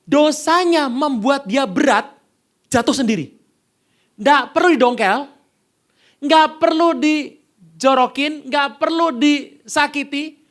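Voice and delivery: full-force sermon climax; fiery preaching. Real, not acted. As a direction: preach it hard, pounding each phrase.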